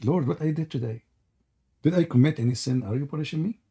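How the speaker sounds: a hint of a weary plea to God; mock prayer. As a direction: sigh it up to heaven in mock despair. Mock prayer about annoying caller.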